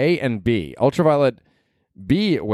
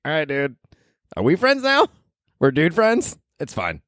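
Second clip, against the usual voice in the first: high-pitched awkward dude voice with a rising plea; mock bro voice; 6 semitones higher than usual. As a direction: ham up two awkward guys asking to be friends. Mocking how guys befriend each other.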